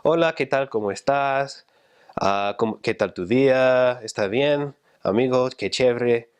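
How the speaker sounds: lilting, friendly Spanish chatter; expressive Peruvian greeting. Retold or imitated. Imitating locals in Huancayo greeting a friend, expressive and lilting. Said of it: "They were expressive, and you could hear that in their voices".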